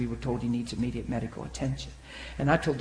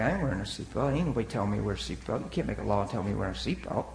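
defiant attitude; 5 semitones lower, 4 dB quieter, faster than usual. Retold or imitated. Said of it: "I had an attitude about it".

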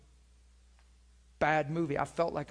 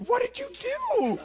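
wife's puzzled question; 4 dB louder, slower than usual. Retold or imitated. Wife asking what happened.

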